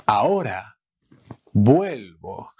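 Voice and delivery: breathy whispered repeat. Shown as a demonstration. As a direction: whisper it, then say vuelvo. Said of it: "I'm coming back right away".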